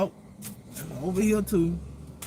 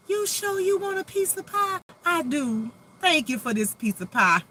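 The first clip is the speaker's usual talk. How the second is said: high, sweet mock Southern voice; Southern accent; 10 semitones higher, 3 dB louder than usual. Host acting a Southern pie exchange with herself, in a mock Southern voice. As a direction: play both Southern ladies over pie, lightly. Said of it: "I just love that Southern accent".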